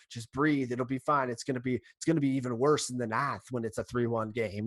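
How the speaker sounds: a hint of a folksy put-on accent; lightly voiced easygoing catcher; David Ross impression. Ross reassuring Rizzo, a hint of the folksy accent. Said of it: "that's my best David Ross for you".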